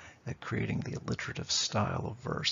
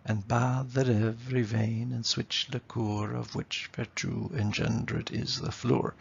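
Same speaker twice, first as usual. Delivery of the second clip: "bathe", "vein" and "flour" on the strong beats; steady da-DUM metre through to "flour"; iambic rhythm. Shown as a demonstration. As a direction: recite with a regular weak-STRONG beat, as in "and BATHE". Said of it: "we get that unstressed, stressed rhythm".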